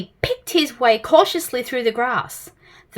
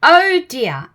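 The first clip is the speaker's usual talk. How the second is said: kindly; 4 semitones higher, 6 dB louder than usual. A narrator's reading. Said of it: "for he was a kindly tramp".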